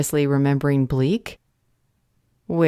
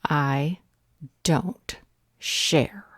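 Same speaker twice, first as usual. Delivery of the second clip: possessive hush; much slower than usual. Acted. Possessive vampire line ending hushed.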